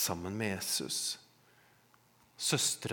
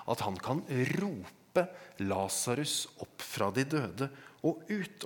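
ordinary delivery

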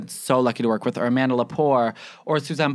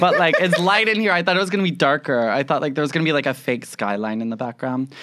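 shouting. Real, not acted. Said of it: "you're shouting".

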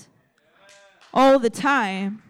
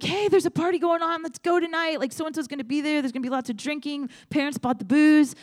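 mock peppy friend on the phone, pitched higher; higher party-friend voice; 5 semitones higher than usual. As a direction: play the eager party invite, higher up. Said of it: "someone's like".

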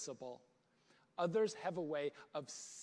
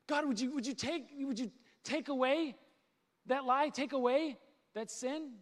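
higher-pitched, mildly urgent appeal; pleading prayer; 5 semitones higher than usual. Acted. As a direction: plead with God to take it away. Acted pleading prayer to God.

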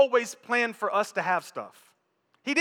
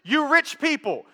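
a hint of a preacher's summons, higher; James calling out; 6 semitones higher, 4 dB louder than usual. Pastor quoting James to the congregation, mock commanding. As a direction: call out the rich, light laugh. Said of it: "he says".

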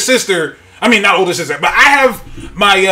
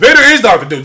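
laughing; 3 dB louder, faster than usual. Real, not acted. Laughing at his own joke.

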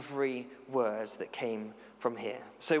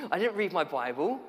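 put-on laughing teen; 4 semitones higher than usual. Youth worker voicing Flora's cheeky reply, laughing. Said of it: "And she said".

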